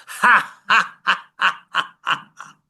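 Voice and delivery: hearty ha ha laugh from the chest; loud laughing. Shown as a demonstration. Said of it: "and laugh out really loud".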